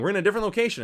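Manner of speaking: high-pitched sarcastic announcement; mock enthusiasm. Reviewer mocking a cheap camera trick, mock excited. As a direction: pretend to be naively amazed. Mocks the film's fake location change.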